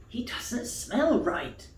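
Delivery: sniffy rabbits. Acted. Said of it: "they exclaimed".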